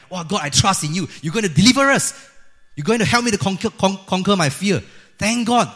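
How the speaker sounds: loud, high, grateful cry; acted-out rejoicing, loud and high; jubilant praise. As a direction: build into an exultant thanksgiving. Acting out the joyful first response.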